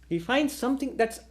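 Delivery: ordinary talk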